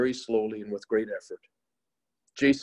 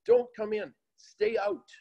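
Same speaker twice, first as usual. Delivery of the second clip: yelling in unison; slower than usual. A narrator's reading. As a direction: shout him back from the door, higher and higher. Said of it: "all the students yelled in one voice".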